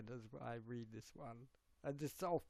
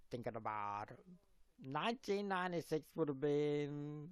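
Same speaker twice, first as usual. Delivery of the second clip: put-on Aussie accent; 3 dB louder than usual. Streamer attempting his story in character, Aussie accent. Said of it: "do this with my Aussie accent".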